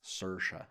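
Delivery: "Saoirse" as SUR-sha with a hard, trilly R; Irish-style "Saoirse", rhyming with "Ursha". Shown as a demonstration. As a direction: hold the R firmly in "Saoirse". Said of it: "is the hard R".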